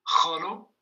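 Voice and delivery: Kholo said alone for repeating, rising at the end; model pronunciation. Shown as a demonstration. Teacher inviting everyone to repeat Kholo, model pronunciation. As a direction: model the word Kholo with a questioning lift. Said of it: "répéter après moi".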